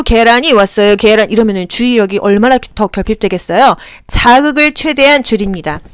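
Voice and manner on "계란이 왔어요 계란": vendor call. Retold or imitated. Imitating street vendor call.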